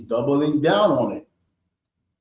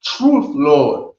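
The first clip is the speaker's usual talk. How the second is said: woman's reply; 3 semitones higher, 7 dB louder than usual. Acted. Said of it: "and she said".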